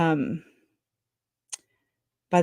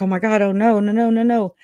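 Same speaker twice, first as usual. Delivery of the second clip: mild mock panic, higher pitch; retold alarm; 3 semitones higher, 4 dB louder than usual. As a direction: replay a rush of dismay, half in earnest. Retold panic at a trial starting.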